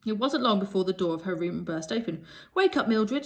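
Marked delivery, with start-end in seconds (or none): 2.5-3.3 high loud shriek to wake her. A narrator's reading. Maud shrieking at her sleeping friend: high, loud shriek. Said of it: "shrieked Maud".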